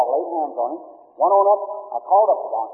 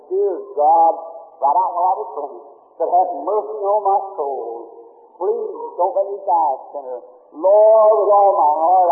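retold sobbing prayer. Dying boy begging God for mercy, slow and pleading. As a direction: plead for mercy, slowly, with a mild catch. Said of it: "sobbed and sighed and said".

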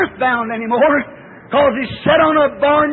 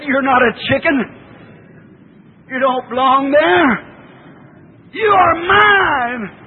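mother eagle's call. Acted. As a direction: build from calm to a tearful call. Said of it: "The old mother said".

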